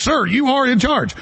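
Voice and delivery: mock deferential aide. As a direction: play a fawning aide reassuring the boss. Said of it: "They're like".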